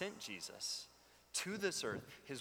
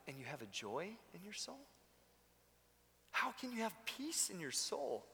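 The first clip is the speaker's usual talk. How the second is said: higher-pitched, amazed questioning; incredulous onlooker; 5 semitones higher than usual. Acted. Onlookers question a suffering believer's peace, incredulous. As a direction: ask it in disbelief, voice lifted.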